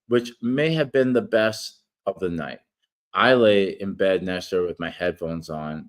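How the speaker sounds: steady read-aloud narration; reading an essay. Acted. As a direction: read the article aloud, measured. Reads his article aloud.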